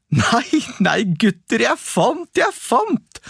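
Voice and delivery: high, eager sing-song call. A narrator's reading. Askeladden calling to his brothers, high excited cry. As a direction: crow about the find to the boys. Boy crowing over his find.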